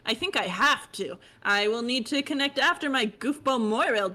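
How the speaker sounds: high bubbly chatty voice; high fish girl voice. Acted. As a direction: chirp it like a bubbly troll. Holds character voice.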